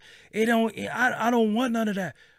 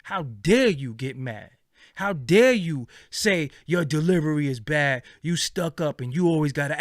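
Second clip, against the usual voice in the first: indignant; 3 semitones lower, 3 dB louder than usual. Real, not acted. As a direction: lash out at the critics. Angry rant at critics.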